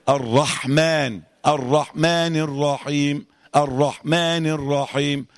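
slow "الرحمن" with haa sounded out; measured recitation, distinct haa in "الرحمن"; clear still haa. Shown as a demonstration. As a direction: hold the airy haa in "الرحمن". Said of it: "في حق تلاقيها ساكنة".

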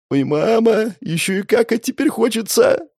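put-on high cracking wail of a scared boy; squeaky panic. A narrator's reading. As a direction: whine it as the voice breaks. Voice still cracking in fear. (писклявый срывающийся голос)

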